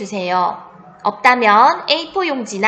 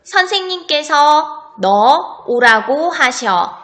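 dictating. Shown as a demonstration. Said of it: "잘 썼는지 처음부터 확인해 봅시다".

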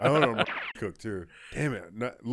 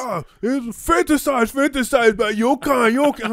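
creepy mock voice; 13 semitones higher, 9 dB louder than usual. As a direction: play a creepy captor, high and loud. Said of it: "They're like".

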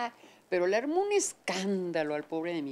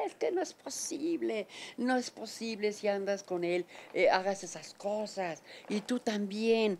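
scolding mother; 2 semitones higher than usual. Retold or imitated. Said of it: "Nos dio una regañada".

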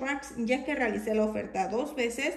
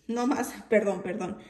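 laughing apology. Real, not acted. Laughs at own slip.

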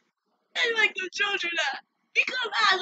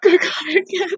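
sobbing wail, climbing very high; high tearful cry; anguished crying; 9 semitones higher than usual. Real, not acted. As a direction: cry out to God in grief. Breaking down in grief.

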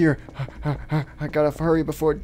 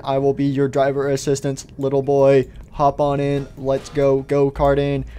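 measured robot helper; lightly voiced robot assistant; robot driver assistant; 2 semitones lower than usual.

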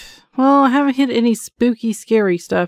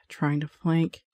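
low, softer mocking repeat; scoffing repeat; 5 semitones lower, 10 dB quieter, slower than usual. Real, not acted. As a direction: scoff at the words as silly. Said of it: "Silliest thing I ever heard".

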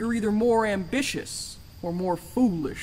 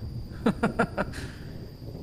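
soft breathy laugh; 4 semitones higher, 5 dB quieter than usual. Acted. Amused at the puppet quip.

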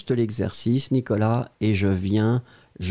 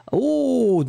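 surprised; 11 semitones higher than usual. Real, not acted. Surprised at a new student.

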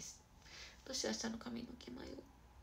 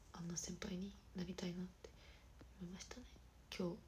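soft, subdued and sincere; hushed, heartfelt admiration; serious talk; 8 dB quieter than usual. Real, not acted. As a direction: speak quietly and earnestly, with pauses. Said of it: "ちょっと真面目な話".

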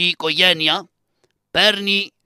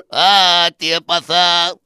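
hammed-up wailing; 2 semitones higher, 5 dB louder, much slower than usual. Son wails fake lament.

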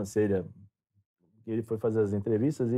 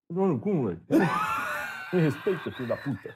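mock angry retort; 5 semitones higher, faster than usual. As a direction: play the offended friend, hammed up. Ronaldo retorts angrily in retold story. (amigo ofendido respondendo à zoeira, bravo de brincadeira)

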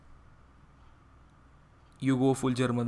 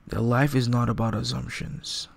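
wise mentor voice; 6 dB louder than usual. Acted. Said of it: "it sounded like you were whispering in his ear".

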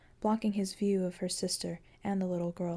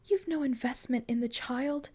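angry edge; 7 semitones higher than usual. A narrator's reading. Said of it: "an angry edge to her voice".

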